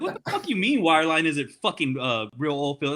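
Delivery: retelling an annoyed comeback; retold indignation. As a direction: challenge him in worked-up disbelief. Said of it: "low-key kinda fucking pissed off".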